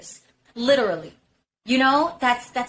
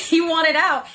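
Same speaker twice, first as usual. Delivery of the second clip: laughing repeat; 6 semitones higher, 5 dB louder than usual. Real, not acted.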